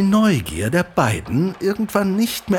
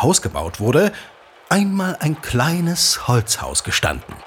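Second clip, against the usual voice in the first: unhurried legend-telling voice, drawing the listener in; storyteller narration. Acted. Father telling his son the local legend, storyteller narration. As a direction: tell it like an old tale by the fire.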